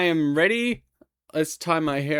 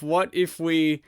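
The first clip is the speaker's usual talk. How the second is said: musing to herself. Retold or imitated. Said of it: "I thought to myself".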